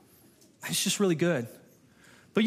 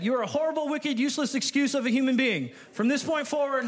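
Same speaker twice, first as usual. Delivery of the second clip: mock harsh God; 3 semitones higher than usual. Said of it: "is that what your Bible says".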